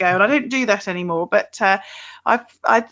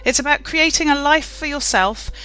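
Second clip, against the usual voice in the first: scripted, evenly paced welcome to the show; host's prepared show opener; podcast intro read. Acted.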